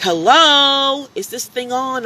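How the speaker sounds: mock a customer tapping a dead speaker; confused customer. Customer at the menu board asks loudly if it works. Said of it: "They'd be like".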